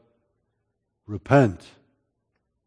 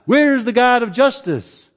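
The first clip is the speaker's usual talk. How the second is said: higher, pushed challenge to heaven; exasperated demand; 5 semitones higher, 3 dB louder than usual. Retold or imitated. Doubter demanding God act, exasperated higher cry. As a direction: throw the question up in frustration. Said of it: "or by asking".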